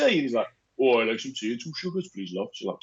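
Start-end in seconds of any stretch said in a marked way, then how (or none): 0.8-2.5 imitated Welsh builder, voice dropping low; deep Welsh voice. Bricklayer answering wife's tea offer, deep Welsh accent. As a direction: put on a deep Welsh lilt. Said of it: "he's got his deep voice".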